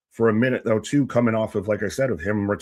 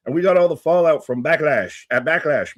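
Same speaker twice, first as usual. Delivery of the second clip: louder, higher hype delivery; excited; 6 semitones higher, 6 dB louder than usual. Acted. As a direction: sell it like big news. Hyped follow-up to the intro.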